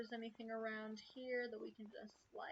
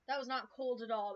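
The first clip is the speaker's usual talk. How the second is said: louder, indignant complaint; 6 dB louder than usual. Real, not acted. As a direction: push it out, annoyed. Reacting to warm tea.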